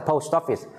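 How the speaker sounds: "post office" run together, the t joined to the o; linked pronunciation. Shown as a demonstration. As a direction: link "post office" into one smooth phrase. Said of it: "Đọc nối rằng".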